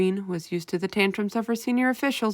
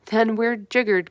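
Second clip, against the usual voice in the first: slow, louder despairing cry; exasperated cry; 4 semitones higher, 5 dB louder, slower than usual. A narrator's reading. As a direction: throw up your hands. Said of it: "cried the Army General".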